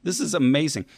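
talking through chewing gum. Real, not acted. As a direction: speak while chewing gum. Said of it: "I should stop chewing gum while I'm talking".

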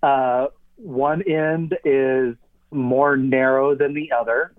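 talking around an object in the mouth; mouth full. Real, not acted. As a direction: describe it with something in your mouth. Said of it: "It's in my mouth now".

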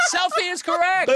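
high, loud game-show ruling; excited announcement. Real, not acted. Host confirms the contestant's quiz answer, excited.

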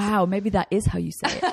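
amused, half-laughing aside; light laugh. Real, not acted. Guest laughing at the American accent joke. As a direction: chuckle through it, playing along. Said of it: "is what every American thinks".

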